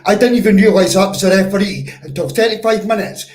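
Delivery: loud, exasperated shouting; real angry fan venting at the referee; furious rant. Real, not acted. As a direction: yell that you've had enough of this ref.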